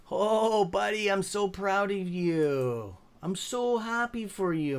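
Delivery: excited praise. Real, not acted. Congratulating friend on success.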